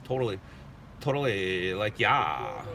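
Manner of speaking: lightly voiced Valley girl. Shown as a demonstration. Telling chat his mom was a Valley girl, lightly mimicked. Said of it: "My mom's a Valley girl".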